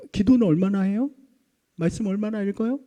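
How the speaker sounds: pointed, prying questions; nagging. Acted. Longtime churchgoer checking a newcomer's prayer habits, nagging. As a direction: quiz them like a church busybody. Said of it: "막 그렇게 잔소리를 하는 거예요".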